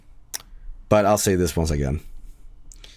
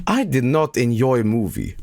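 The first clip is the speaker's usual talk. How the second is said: mock troll quote; 3 semitones higher, slower than usual. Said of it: "always saying shit like".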